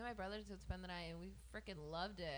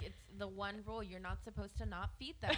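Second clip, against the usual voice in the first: scolding through laughter, louder; laughing mock outrage; 7 dB louder than usual. Friend teasing Carla for not feeding the kid, laughing. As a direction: laugh while laying down the one rule.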